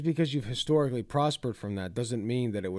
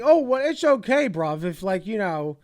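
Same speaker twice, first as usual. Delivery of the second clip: put-on failed Irish accent; 9 semitones higher, 8 dB louder than usual. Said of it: "I can't do Irish accents".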